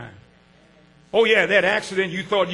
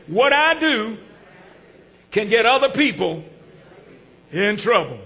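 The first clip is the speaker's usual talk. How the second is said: call and response. Shown as a demonstration. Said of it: "Say that with me".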